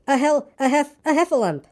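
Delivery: high, stumbling Piglet voice; breathless stammer. A narrator's reading. Piglet reports to Christopher Robin, breathless and high. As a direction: stumble towards the word, high and winded. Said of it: "breathing so hard that he could hardly speak".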